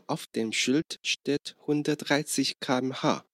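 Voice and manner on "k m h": letters K M H read one by one; spelling it out. Shown as a demonstration. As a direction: spell out K, M, H as separate German letters. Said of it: "其实就是像你刚刚那样子，把字母一个一个念出来".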